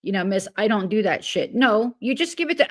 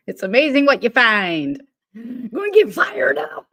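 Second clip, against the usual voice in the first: pushed, raised voice straining at an impression; attempted voice; 3 semitones higher, 4 dB louder than usual. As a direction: strain for a big hyped-up character voice. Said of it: "Oh, I can't even do it".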